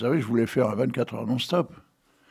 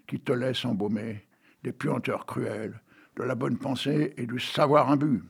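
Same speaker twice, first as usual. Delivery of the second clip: poem reading. Acted. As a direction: read it out like verse on the radio. Reads the poem on.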